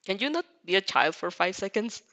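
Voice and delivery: flat, unimpressed muttering; deadpan like Aizawa. Acted. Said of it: "You deadpan so hard".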